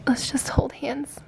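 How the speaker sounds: soft whisper to the dog. Real, not acted. To the husky, wanting to hold paws, whispering. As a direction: coax her gently in a whisper.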